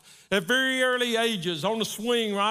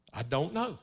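put-on soft, low little girl saying sir; a guilty child answering her dad; meek daughter; 5 semitones lower, 5 dB quieter than usual. Daughter answers her father's questions, meek and soft. Daughter voiced in retold story.

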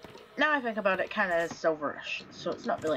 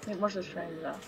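soft, tense whisper; hushed whisper; 2 semitones lower, 7 dB quieter than usual. Real, not acted. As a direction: whisper so it won't hear. Hiding from animatronics.

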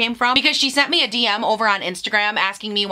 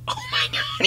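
much higher, piercing squeal of delight; real squeal over the pretty shade; excited squeal; 5 dB quieter than usual. Real, not acted. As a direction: squeal it out in sheer joy. Sees palette colors, squeals.

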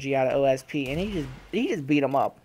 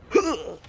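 imitated gasp; 7 semitones higher than usual. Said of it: "where you can hear him go".

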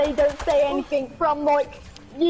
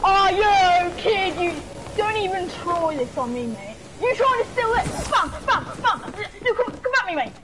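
hyped taunting; 4 semitones higher than usual. Real, not acted. Fighting a kid in game.

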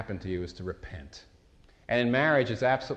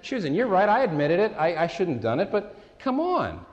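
defensive protest; 5 semitones higher than usual. Retold or imitated. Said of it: "I'm saying".

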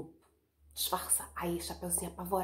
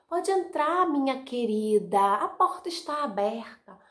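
grandma; 4 semitones higher, 5 dB louder than usual. Acted. Grandma answers the door.

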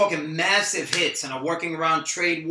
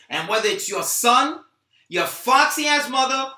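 menacing rage; 3 semitones higher, 5 dB louder than usual. Acted. Rocky threatens Troy over the phone, menacing. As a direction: lean in, every word a threat.

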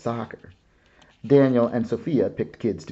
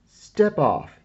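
firm command; 7 semitones higher, 7 dB louder than usual. Acted. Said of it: "But Josh was ready".

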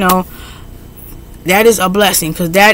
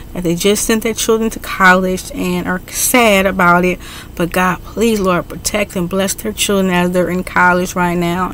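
softer, heartfelt prayer voice; earnest prayer; 2 semitones lower, 3 dB quieter than usual. Real, not acted. Vlogger closing her video praying over her viewers, soft and earnest. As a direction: pray it sincerely, head bowed.

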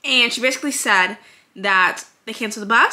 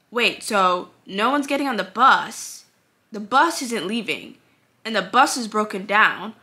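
calm questioning. Retold or imitated. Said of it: "I was not even raising my voice".

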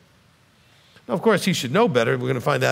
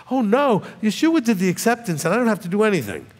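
mocking objector; 5 semitones higher than usual.

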